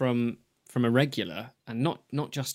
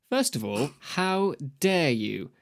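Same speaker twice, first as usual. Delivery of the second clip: indignant; 3 semitones higher, slower than usual. Pretend. Reading an indignant email.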